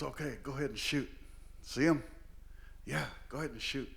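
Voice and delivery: soft, quick hunter's prompt; imitated uncle quietly urging; acted hushed coaching. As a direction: murmur so the deer won't hear. Uncle coaching the hunt under breath.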